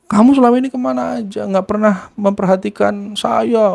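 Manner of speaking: lightly acted wailing complaint; retold reproach. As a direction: imitate a hurt child berating a parent. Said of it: "Intinya mencemooh".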